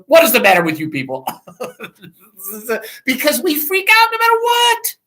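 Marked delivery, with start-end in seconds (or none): 0.1-1.3 quick exasperated scolding. Retold or imitated. Jesus to the frightened disciples, quick exasperated scold. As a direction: fire it off, fed up with them. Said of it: "he turned to the disciples and goes".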